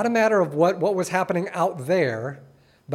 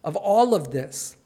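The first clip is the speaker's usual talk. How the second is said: higher, lost and pleading voice; bewildered Joshua; 5 semitones higher than usual. Retold or imitated. Joshua speechless before God, bewildered pleading. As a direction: play a man at a complete loss. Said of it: "He's like".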